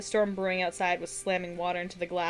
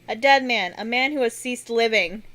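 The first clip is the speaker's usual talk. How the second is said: loud; 3 semitones higher, 7 dB louder than usual. Acted. Witch answers over the storm.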